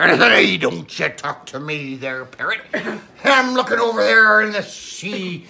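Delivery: lightly voiced old sea captain spinning a yarn; a hint of a salty pirate telling a tall tale; pirate storyteller. Pirate Paul tells Billy his Godzilla story, lightly pirate-voiced. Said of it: "the pirate is back".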